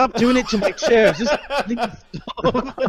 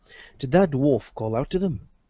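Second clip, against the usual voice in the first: put-on British accent; 9 semitones lower, 3 dB quieter than usual. A player voicing a character puts the british accent back on. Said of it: "getting my British accent back on".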